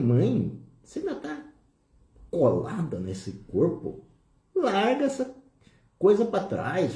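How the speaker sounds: firm, direct words to his mother, in his everyday voice; own firm tone. Retold or imitated. Son urging his dead mother to let go, firm. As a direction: tell her plainly and firmly to let go. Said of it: "Falei desse jeito, com o meu tom mesmo".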